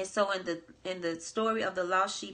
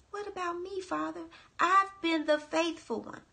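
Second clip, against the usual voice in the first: higher-pitched, aggrieved complaint of a jealous brother; resentful older son; 6 semitones higher than usual. Acted. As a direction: whine it out high, hurt and indignant, like a son passed over. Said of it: "He says".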